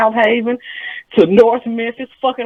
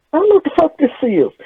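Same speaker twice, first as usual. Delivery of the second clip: mock baffled; 7 semitones higher than usual. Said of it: "I says".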